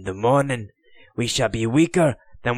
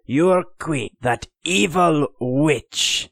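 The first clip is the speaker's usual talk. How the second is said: scornful taunt rising higher and louder; jeering; 5 semitones higher, 3 dB louder than usual. Acted. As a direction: spit contempt at the queen and her men. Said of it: "he jeered".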